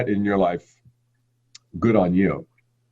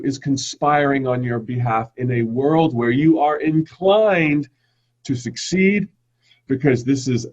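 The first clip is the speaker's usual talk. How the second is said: poetic affirmation reading. Acted. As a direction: read it like a gentle uplifting poem, easing down at the end. Poetic affirmation read opening talk.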